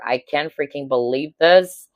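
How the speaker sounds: ordinary delivery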